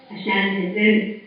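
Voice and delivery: slow, voice catching with emotion; real emotion welling up mid-sentence; choked up. Real, not acted. Speaker thanking God for her blessings, choked up. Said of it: "I'm getting a little emotional".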